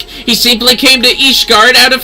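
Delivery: lightly voiced proud lady. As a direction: look down your nose at an old pupil. Lady scolds, professor answers.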